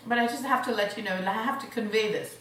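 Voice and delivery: talking through a mouthful; words round a bite of food; mouth full. Real, not acted. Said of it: "Don't speak with your mouth full".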